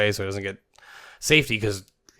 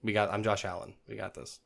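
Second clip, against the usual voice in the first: softer, fading laid-back boast; cool confidence; 6 dB quieter than usual. Retold or imitated. Quarterback reassuring a fan, softer and relaxed. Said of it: "He's like".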